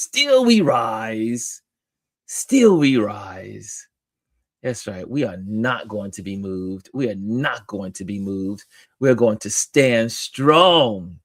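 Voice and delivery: slow, drawn-out Southern delivery; playful Southern rallying cry. Pretend. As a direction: put on a Southern voice, stretching the key words. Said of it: "in my, in my Southern voice".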